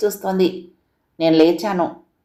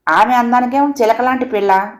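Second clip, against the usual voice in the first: sudden anger; 5 semitones higher than usual. Acted. Kamala to narrator defending Sita's looks, suddenly angry. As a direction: snap back in her defence. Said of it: "చర్రున కోపం తెచ్చుకుంది కమల".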